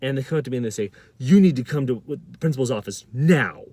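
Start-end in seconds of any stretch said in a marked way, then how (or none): 1.2-3.6 louder, stern order; mock the angry summons, punching it; retold anger. School staff summoning the storyteller to the office, angry. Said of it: "They're so mad".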